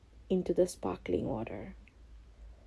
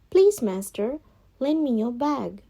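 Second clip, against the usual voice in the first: lightly voiced cat, a little higher; Puss asking; 5 semitones higher than usual. Cat politely asks master for his bag. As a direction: ask sweetly as the cat. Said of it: "said Puss".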